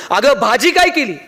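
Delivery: mock yell. Husband calling right into his wife's ear, mock yell. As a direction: act out hollering into an ear. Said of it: "जोरात कानात ओरडला".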